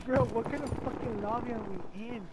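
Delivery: drawn out, slow and baffled; slow disbelief. Real, not acted. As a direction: drag it out in disbelief. Repeats lobby complaint slowly.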